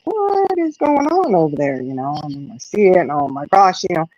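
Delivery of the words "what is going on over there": high, slow startled call across the yard; retelling her startled shout at the commotion; alarmed call. Retold or imitated. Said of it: "I was like".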